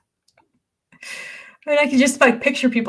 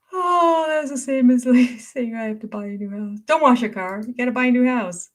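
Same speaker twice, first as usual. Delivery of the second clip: laughing recap; 5 semitones higher than usual. Real, not acted. Laughing retelling.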